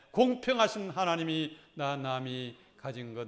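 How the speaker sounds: measured hymn-poem reading; poem read aloud together. Shown as a demonstration. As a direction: lead the congregation through the poem line by line. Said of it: "같이 한번 읽어봅시다".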